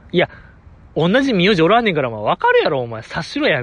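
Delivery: quick, lightly imitated telling-off in Kansai dialect; playful imitation of a brisk dressing-down; mock scolding. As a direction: rattle off a mildly impatient retold rebuke. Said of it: "ずんなにちょっとなじられたいですね".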